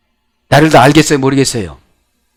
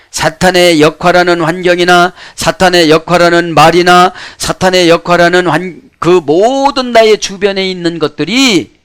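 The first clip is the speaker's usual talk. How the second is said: preaching; 4 semitones higher, 5 dB louder than usual. Real, not acted.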